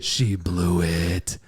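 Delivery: slow conspiratorial whisper. Real, not acted. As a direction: lean in and whisper it slowly. Confiding mom's first-meeting flop.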